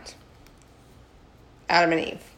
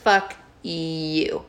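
mock angry God. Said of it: "And he's like".

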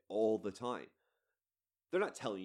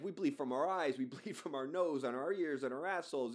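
higher-pitched imitation in a loose African accent; not-quite South African accent; put-on foreign accent; 4 semitones higher than usual. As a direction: mimic a man in a badly faked South African accent. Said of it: "I don't know why I'm doing that accent".

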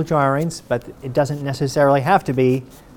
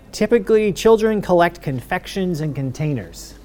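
Typically pitched much higher, stretched, pompous; mock stilted legalese; 5 semitones higher than usual. Shown as a demonstration. Lecturer mocking how patent attorneys write, overly formal read. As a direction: read it like stuffy patent prose. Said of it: "People don't talk like this".

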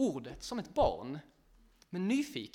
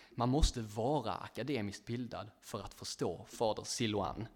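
lower, mild sorrowful reply; a touch of sadness, pitched down; 6 semitones lower than usual. Retold or imitated. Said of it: "svarar den här andra mannen sorgset". (sorgset, lite lägre röst)

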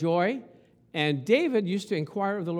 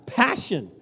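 passion; 4 dB louder than usual. Shown as a demonstration. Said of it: "like I'm showing right now".

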